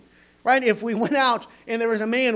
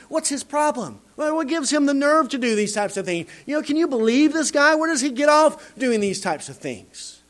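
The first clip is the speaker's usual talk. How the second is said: indignant mock outrage; 7 semitones higher than usual. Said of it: "Who does this guy think he is".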